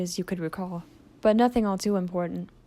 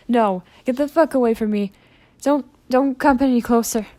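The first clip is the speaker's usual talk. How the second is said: panicked yell; 4 semitones higher, 7 dB louder than usual. Acted. Blitz, hurt, pushing everyone away.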